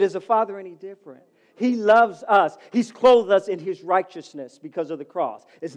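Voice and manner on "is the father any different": repeated question. Real, not acted. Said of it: "I said".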